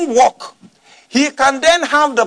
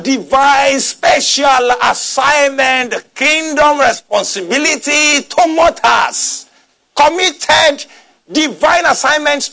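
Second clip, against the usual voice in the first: forceful preaching; 4 semitones higher, 4 dB louder, slower than usual. Real, not acted. Preacher drives home the charge.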